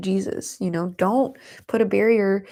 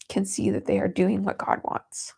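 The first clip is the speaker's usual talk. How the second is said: crying through it. Real, not acted. Reading while crying.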